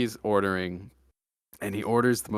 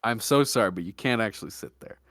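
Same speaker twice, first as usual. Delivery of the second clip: very polite barista. Retold or imitated. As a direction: politely let the customer down. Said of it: "he says very politely".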